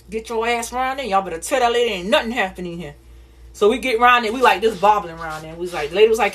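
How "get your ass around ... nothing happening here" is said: put-on stern grandma voice; grandma ordering. Grandma ordering the kids to deny everything, stern voice. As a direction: push the kids to lie. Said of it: "My grandma pinched my arm".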